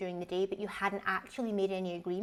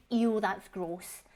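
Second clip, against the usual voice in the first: slow, drawn-out mocking "Ew, that's gross"; mimicking a childish husband turning up his nose; mock disgust; 3 dB louder, much slower than usual. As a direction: stretch out "Ew" like a fussy child. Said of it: "Or at least not say".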